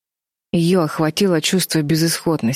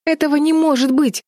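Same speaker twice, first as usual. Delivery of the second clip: much higher, anguished cry of disbelief; desperate outcry; 11 semitones higher than usual. A narrator's reading. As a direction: cry out that it can't be. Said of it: "хотелось крикнуть Бетти".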